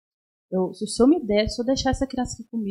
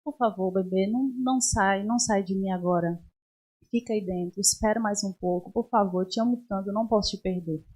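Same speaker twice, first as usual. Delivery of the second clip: soft, hushed begging, a touch of tears; tender pleading to baby; 5 dB quieter than usual. Retold or imitated. Mother pleads softly with her baby to stay, hushed and tender. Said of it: "com meu bebê e falava".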